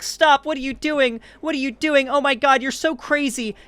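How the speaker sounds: high-pitched mock girlfriend panic, rapid repeated protests; hysterical girlfriend. Girlfriend caught cheating yells at her boyfriend, hammed-up hysterics. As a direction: put on a high, frantic girlfriend voice.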